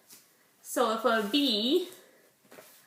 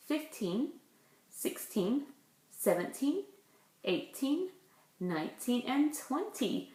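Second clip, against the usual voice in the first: put-on counting aloud for kids; 4 dB quieter than usual. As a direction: count each number out for the class. Teacher counting slowly with class.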